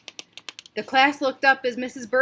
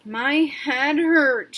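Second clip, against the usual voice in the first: 1 moaning; 4 semitones higher, 5 dB louder, much slower than usual. Acted. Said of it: "she moaned".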